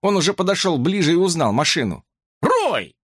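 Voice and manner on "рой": much higher, strained call; high-pitched anxious call; voice octaves higher. A narrator's reading. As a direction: let the voice jump up in alarm. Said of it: "голос звучал на несколько октав выше".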